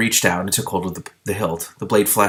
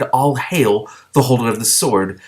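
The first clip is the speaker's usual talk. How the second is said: echoing voice; 3 semitones higher, slower than usual. Acted. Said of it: "The words echoed hollowly".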